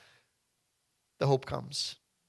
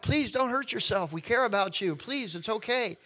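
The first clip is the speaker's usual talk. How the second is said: mild pleading cry; 6 semitones higher than usual. Acted. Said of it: "They cry out".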